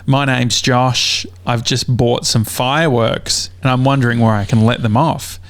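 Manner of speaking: put-on Australian accent, slowed down. Caller to the sheriff's department, in a put-on Australian accent. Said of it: "I put on, like, my Australian accent".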